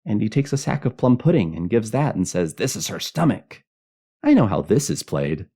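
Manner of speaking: put-on high, loud child rattling on gleefully; happy, excited child. A narrator's reading. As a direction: show off like a kid who knows the game. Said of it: "some child cried happily in the dark".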